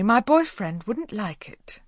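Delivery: put-on slow, firm refusal, leaning on "boyfriend"; a firm brush-off to the neighbour. A narrator's reading. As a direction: shut him down politely but firmly. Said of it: "she said firmly".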